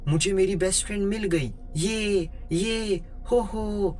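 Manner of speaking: high-pitched, crazed squealing with spoken ha-ha laughs; hammed-up mad delight, high but not truly shouted; manic excited glee. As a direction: act out a crazy girl overjoyed at her find. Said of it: "पागलों जैसी हंसी में चीख चीख कर बोलने लगी".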